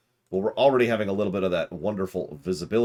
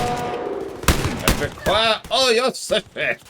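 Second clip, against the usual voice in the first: very slow, loud, higher hammed-up Hollywood German; bad German accent; 12 semitones higher, 5 dB louder, slower than usual. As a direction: demand the sushi as a cartoon German villain. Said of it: "terrible accent".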